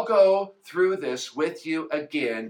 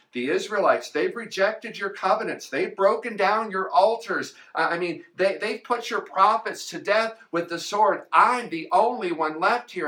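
same plea pitched higher, more worked up; Elijah repeating his complaint; 4 semitones higher than usual. Acted. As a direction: say it again, higher and more agitated. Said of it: "Elijah gives God the same speech as before".

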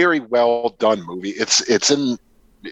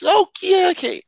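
much higher, swooping mock-casual delivery; mock actor impression. Podcaster mocking Mario Van Peebles' role, high swooping mock voice. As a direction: toss it off like a too-cool movie guy. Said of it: "Mario Van Peebles is".

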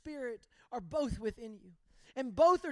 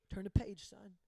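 calm firm father; 5 semitones lower than usual. Retold or imitated. Father repeats calmly.

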